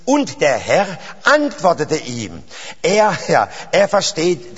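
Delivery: measured sermon delivery with drawn-out key words; emphatic pulpit cadence; earnest preaching. Real, not acted. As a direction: expound it solemnly, stretching the weighty words. Preaches on David.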